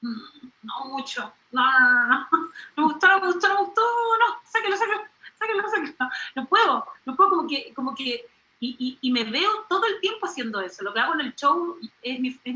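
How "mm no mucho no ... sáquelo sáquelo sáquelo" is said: mock rejecting.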